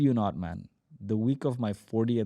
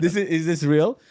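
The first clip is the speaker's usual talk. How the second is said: laughing disbelief; 6 semitones higher, 7 dB louder than usual. Retold or imitated. Laughing at the unbelievable deal.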